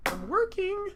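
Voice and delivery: "I'm working." jumped way up in a high squeal; mock-indignant high "I'm working."; high squeaky repeat. Shown as a demonstration. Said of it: "What do you mean, what am I doing?".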